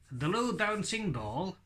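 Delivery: "blue" said as a lip-free "dlue" sound; ventriloquist voice. Shown as a demonstration. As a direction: chant "The blue dancing doll" without moving your lips. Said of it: "it was a blue bouncing ball".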